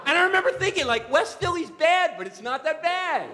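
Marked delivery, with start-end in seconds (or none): 1.1-3.3 wry aside. Retold or imitated. Wry inner thought.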